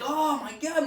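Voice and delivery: high, loud mock wail; comic agony. Patient suffering on the doctor's table, comic agony. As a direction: wail it as if being probed. Patient in pain during procedure.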